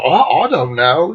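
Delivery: lightly imitated British accent. Bandmate answers about the stranger, in a light British accent. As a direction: put on a casual British accent. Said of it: "He's totally British".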